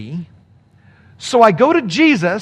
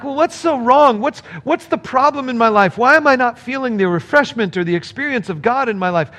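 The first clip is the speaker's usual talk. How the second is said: whiny frustrated believer; 3 semitones higher than usual. Retold or imitated. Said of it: "And then I'm like".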